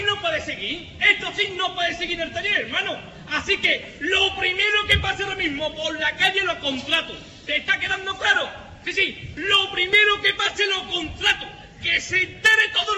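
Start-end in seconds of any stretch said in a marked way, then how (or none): 3.3-8.5 shouted boss threat; gritando enfadado. Acted. Jefe furioso grita al teléfono. 9.4-12.9 slow shouted repeat. Acted. Jefe repite amenaza gritando.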